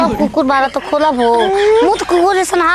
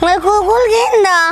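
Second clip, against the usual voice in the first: high, tearful whine; whining plea; 4 semitones higher than usual. Acted. Wife begging husband for a dog, whining. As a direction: plead for it like a sulking child.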